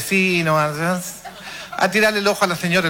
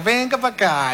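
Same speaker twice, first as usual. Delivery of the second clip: higher, sweetly coaxing mom voice; mother sweet-talking the dog, higher and coaxing; 5 semitones higher than usual. Retold or imitated. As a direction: coax the dog in gently like mom would. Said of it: "y así suavecito".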